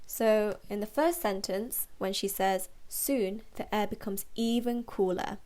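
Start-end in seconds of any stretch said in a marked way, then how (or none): 2.9-5.4 read-aloud line with clear emphasis on "even"; stress on even. Shown as a demonstration. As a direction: lean on the word "even" as you read it. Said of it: "I'm saying it that way".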